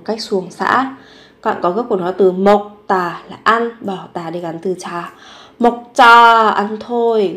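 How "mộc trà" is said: Mộc trà with the second consonant doubled and tense; tensed consonant. Shown as a demonstration. Teacher showing students the doubled consonant in 먹자, tense and clipped. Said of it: "Gấp đôi phụ âm chờ khi phát âm".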